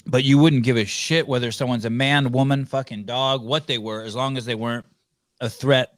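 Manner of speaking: talking around a piece of ice; ice in mouth. Real, not acted. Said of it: "Sorry, I have a piece of ice in my mouth".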